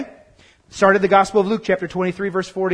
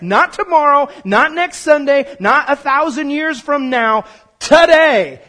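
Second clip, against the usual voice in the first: emphatic preaching; 5 semitones higher, 5 dB louder, slower than usual. Real, not acted. Building emphatic sermon list.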